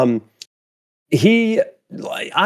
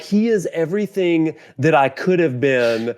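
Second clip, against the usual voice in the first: laughing; 2 semitones higher than usual. Retold or imitated. Laughing through a jealous quote.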